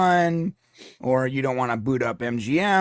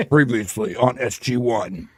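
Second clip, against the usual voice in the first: slow, low movie-trailer intro; slow dramatic intro; 5 semitones lower than usual. Retold or imitated. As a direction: drawl it like a grave narrator. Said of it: "Teal'c's doing the intro".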